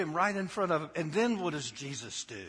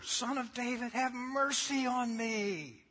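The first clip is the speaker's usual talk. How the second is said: loud pleading cry of the blind beggar; yelling beggar; 8 semitones higher than usual. Retold or imitated. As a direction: shout it out, begging for mercy. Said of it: "He yells louder".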